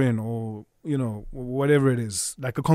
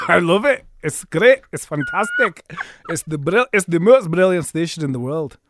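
Scottish accent; 3 semitones higher, 4 dB louder than usual. Shown as a demonstration.

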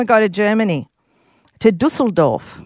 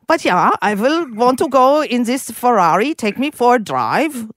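put-on German accent; 2 semitones higher than usual. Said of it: "this is German".

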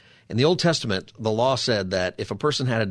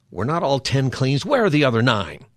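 accusing, louder question; mock stern rebuke; 3 semitones higher, 4 dB louder than usual. Shown as a demonstration. Jesus asking sternly, a mock accusing question. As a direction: scold the healed men for not returning. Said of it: "is that what he said? I don't think that's the way".

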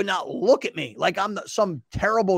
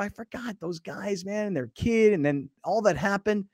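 muttering to himself; 3 semitones higher, 5 dB quieter than usual. Retold or imitated. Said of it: "get in my car and go".

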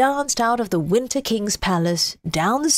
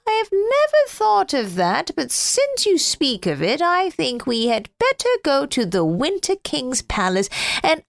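lightly raised, eager snowman voice; a cheerful snowman thinking aloud; 4 semitones higher than usual. Acted. Snowman figure voiced by reader.

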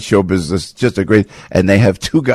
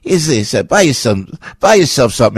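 Sid Caesar type; 4 semitones higher than usual. Retold or imitated. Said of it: "He goes".

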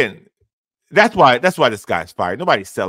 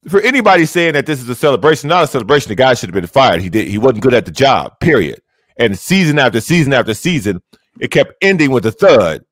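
distorted mic. Real, not acted. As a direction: voice breaking up through a hot mic. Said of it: "it's distorted".

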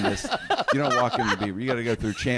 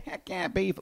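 Wally impression; 8 semitones higher than usual. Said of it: "I could do a little bit of Wally".

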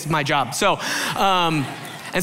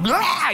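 mock roar; 11 semitones higher than usual.

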